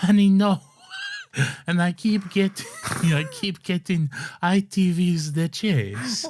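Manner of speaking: put-on grandma in law greeting Lorenzo, Italian accent; Italian nonna. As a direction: play a doting Italian granny calling his name. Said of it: "an impression of Lawrence's nonna-in-law".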